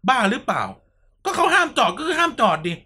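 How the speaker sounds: half-playful telling-off of a relative; imitating yourself scolding a relative who parked illegally; retold scolding. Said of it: "กูด่าเลยนะ".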